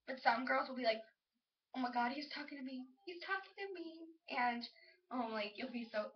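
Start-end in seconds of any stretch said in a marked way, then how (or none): 1.8-4.1 hushed excitement climbing higher; acted soft squeal, rising on the repeat; flattered girl. Girl thrilled he's talking to her, flattered. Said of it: "they'll be so flattered".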